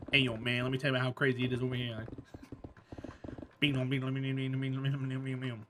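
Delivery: low, soft, rapid mumble; Boomhauer. Acted. Telling how crazy it is over here, low garbled mumble. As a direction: run the words together into rambling nonsense. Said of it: "It was Boomhauer?".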